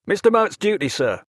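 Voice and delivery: breathless mate rushing to report; eager cry. Acted. Mate bounding in to tell the captain, eager and high-pitched. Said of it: "he cried".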